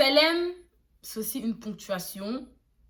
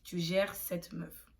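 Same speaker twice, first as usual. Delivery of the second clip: slow explanation; 2 semitones lower, 5 dB quieter, slower than usual. Shown as a demonstration. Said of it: "Donc, tu ksar style là, ça veut dire".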